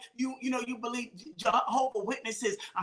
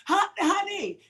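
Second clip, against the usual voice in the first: quick call; 6 semitones higher, slower than usual. Acted. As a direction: act out promptly summoning your husband. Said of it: "You see how quick I call my husband?".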